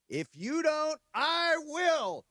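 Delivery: high, loud mock outburst; hammed-up retold shout; really loud interjection. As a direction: call it out high over the ceremony, imitating a scene-stealer. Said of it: "really loud".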